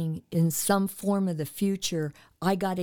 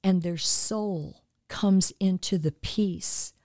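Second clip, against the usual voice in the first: earnest, steady prayer voice for listeners; spoken prayer. Acted. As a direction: pray over the audience with calm conviction.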